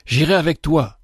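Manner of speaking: décidé, sans hésiter; résolument. Acted. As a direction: une ferme décision, posée simplement. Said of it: "dit résolument le plus jeune". (le plus jeune frère répond, résolu)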